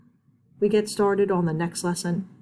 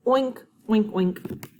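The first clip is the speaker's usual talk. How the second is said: mock pig oinks; 3 semitones higher, much slower than usual. Shown as a demonstration. Teacher imitates a pig for the kids. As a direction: play a pig lightly. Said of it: "A pig says".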